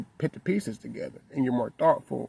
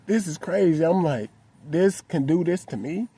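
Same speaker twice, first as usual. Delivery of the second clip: higher-pitched retold amazement; incredulous; 5 semitones higher than usual. Father stunned that his daughter's hurt made him cry, incredulous. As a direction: ask it in baffled disbelief. Voicing own shock at crying himself.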